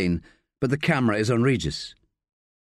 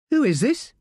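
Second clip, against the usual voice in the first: high, startled little voice; like a child alone in an empty house; caught-off-guard child; 13 semitones higher than usual. A narrator's reading. Sally answering an unknown call, startled and childlike. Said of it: "sounding like a child who might have been caught off guard".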